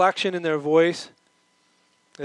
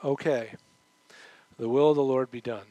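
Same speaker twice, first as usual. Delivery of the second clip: sincere acceptance; 3 semitones lower than usual. Pretend. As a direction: accept it genuinely and peacefully. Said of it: "genuinely convinced".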